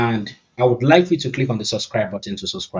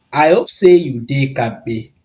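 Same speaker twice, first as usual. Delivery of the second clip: Nigerian Pidgin; 3 dB louder, slower than usual. Shown as a demonstration. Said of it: "he says".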